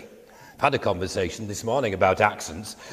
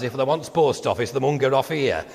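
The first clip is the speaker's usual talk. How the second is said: mock Yorkshire bus announcement; put-on Yorkshire accent. Mimicking the bus commentary, mock Yorkshire accent. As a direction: overdo a fake Yorkshire dialect. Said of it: "that's what the guy was saying".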